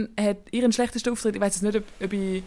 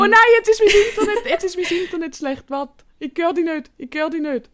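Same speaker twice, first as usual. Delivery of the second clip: raised voice over bad connection; to someone hard of hearing; 7 semitones higher, 4 dB louder than usual. Real, not acted. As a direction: call out loudly over a bad line. Internet breaking up on call.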